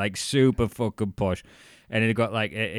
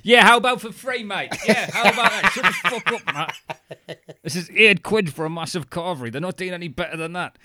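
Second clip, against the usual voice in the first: high, loud, laughing barker voice; carnival barker; 7 semitones higher, 3 dB louder than usual. Retold or imitated. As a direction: sell it like a fairground barker. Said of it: "You've got your work voice on, which sounds like a fucking carnival barker".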